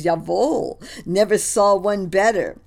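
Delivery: loud, pleased German officer; lightly voiced hearty German colonel. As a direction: praise it heartily. Colonel praising.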